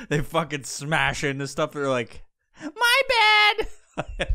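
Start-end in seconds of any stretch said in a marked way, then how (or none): 2.6-4.3 squeaky mock sorry; mock apology. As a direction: toss off a silly high-pitched apology. Mocking careless drivers.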